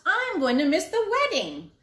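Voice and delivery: loud, high panicked yelling; man yelling that he is late. A narrator's reading. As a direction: shout it, lost on the road. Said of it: "came down the road yelling".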